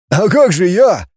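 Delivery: high, lost question; dismayed; bewildered. A narrator's reading. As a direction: caught off guard. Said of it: "растерялся Таппи".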